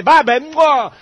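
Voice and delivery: loud, breezy brush-off with an air kiss; mock careless goodbye. Preacher mocks a bored husband's goodbye, loud and breezy. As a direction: toss it off like a bored husband leaving.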